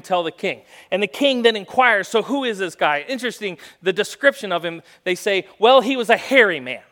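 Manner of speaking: loud, driving sermon storytelling; preaching. Acted. Pastor telling the Elijah story to the church, preaching hard. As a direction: preach it out to the congregation.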